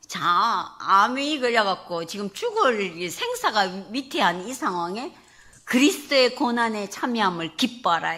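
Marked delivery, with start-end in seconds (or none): 5.6-8.2 firm proclamation. Retold or imitated. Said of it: "이렇게 말씀하시는 거예요".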